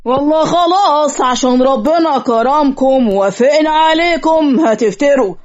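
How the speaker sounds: indignant retort. Acted. Relative to the in-laws who look down on them, indignant retort. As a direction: stretch the words out in affronted protest. Families quarrel at the wedding.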